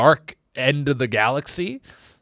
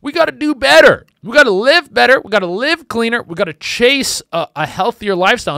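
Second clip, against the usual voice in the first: high, loud preachy declaration; mock earnest outcry; 9 semitones higher, 7 dB louder than usual. Comic preaching a girl's big life lesson, loud and high. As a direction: proclaim it like a life vow.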